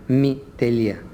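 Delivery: "μη τελεία" said as letters, shown as wrong; wrong letter reading. Shown as a demonstration. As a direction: read "μη τελεία" as a letter and a dot. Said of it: "Λάθος είναι να προφέρουμε".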